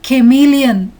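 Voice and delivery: "Chameleon" said loud and distinct with an initial "k"; listen-and-repeat pronunciation. Shown as a demonstration. Teacher modelling a word for children to repeat, loud and careful. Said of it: "Listen and repeat these words".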